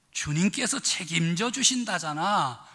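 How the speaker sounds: "주님께서 책임져 주신다잖아" in a mild Pyongan tone; a relaxed, falling Pyongan reassurance; Pyongan dialect. Retold or imitated. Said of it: "평안도 버전은 어떻게 됐나?".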